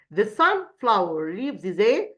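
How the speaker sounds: whisper. Real, not acted. Teacher aside while reading.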